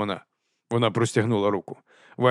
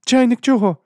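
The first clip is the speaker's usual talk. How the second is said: high, loud puzzled question; lady's voice; 13 semitones higher, 8 dB louder than usual. A narrator's reading. Lady asks Vimes about the kettle, puzzled. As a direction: raise the voice, baffled.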